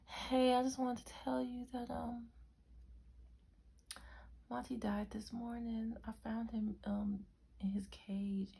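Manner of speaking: high, soft imitation of a sister; Brianna. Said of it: "she's like".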